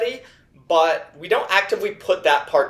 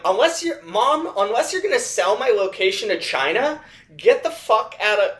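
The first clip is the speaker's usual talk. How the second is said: higher-pitched mock comic rant; Doug Stanhope impression; 5 semitones higher than usual. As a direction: loosely imitate an exasperated stand-up. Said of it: "I'm, I'm Doug Stanhope here".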